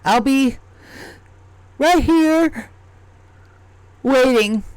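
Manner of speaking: the goblin calls to the party as he climbs the tree; goblin calling out. Acted. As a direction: sing it out as he scrambles off. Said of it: "He's like".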